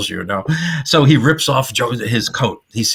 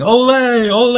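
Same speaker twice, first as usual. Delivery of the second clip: crowd yelling; 13 semitones higher, 6 dB louder than usual. Retold or imitated. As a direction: mimic a cheering crowd, pitched way up. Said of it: "the audience at, at the Bull Ring is yelling".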